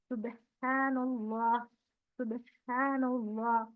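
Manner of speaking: "अल्लाहु" with a thick, full lam, drawn out slowly; slow tajweed demo, the lam of "अल्लाह" read heavy; heavy lam in Allah. Shown as a demonstration. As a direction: recite "अल्लाहु अकबर" and "सुब्हानल्लाह" with a heavy, hollow lam. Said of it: "मोटा पढ़ रहे ना".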